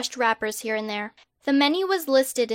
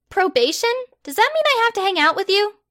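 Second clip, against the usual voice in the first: higher, exasperated protest; indignant girl; 9 semitones higher, 4 dB louder than usual. Acted. Hermione protesting her arrest to Harry, higher and indignant. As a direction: push back in disbelief.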